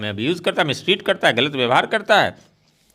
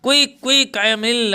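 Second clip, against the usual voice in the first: high, frantic cry of quick, quick; hysterical plea; 7 semitones higher, much slower than usual. Acted. Natalia to her father, demanding Lomov back, frantic and high. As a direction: beg frantically as if fainting.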